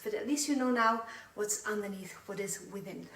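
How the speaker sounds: breathless after dancing; out of breath. Real, not acted. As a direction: talk while catching your breath. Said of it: "out of breath from talking and shimmying".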